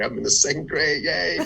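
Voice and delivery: put-on bright high little-kid cheer; childish excitement. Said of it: "and I'm excited".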